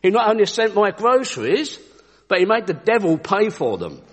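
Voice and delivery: high, excited cries of praise; jubilant shouting. Acted. Old lady jumping and clapping with joy, shouting praise. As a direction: exult loudly, settling a little as it goes. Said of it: "jumping up and down and clapping her hands".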